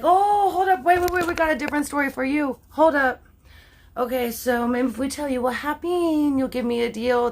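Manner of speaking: hammed-up girl stalling the cops for a deal; mock wheeling-dealing girls. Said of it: "And then they're like".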